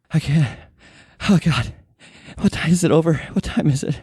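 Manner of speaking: high, distraught voice with broken phrases; weeping housekeeper. Acted. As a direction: play a terrified woman after weeping. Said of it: "She has been weeping".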